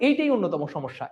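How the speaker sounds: এইটাই said with emphatic weight on the final ই; stress on এইটাই. Shown as a demonstration. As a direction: lean on এইটাই. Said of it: "এই যে জোর দিয়ে বলাটাকে".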